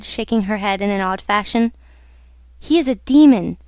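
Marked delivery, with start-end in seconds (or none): 2.6-3.6 a touch of fearful dread. Acted. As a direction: say it with a shiver. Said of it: "she shivered".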